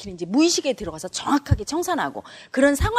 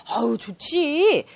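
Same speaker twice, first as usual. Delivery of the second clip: 아주 느리게 늘여 말하는 흐뭇한 감탄; 흐뭇해하는 척; 3 semitones higher, much slower than usual. Acted. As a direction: savour it, drawing every syllable out. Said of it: "질투하면 어떨까 생각해 보세요". (흐뭇한 척 길게 늘여서)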